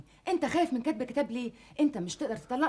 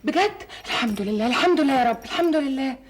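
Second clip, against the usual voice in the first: relieved excitement; 7 dB louder than usual. Acted. Relieved the engagement is off.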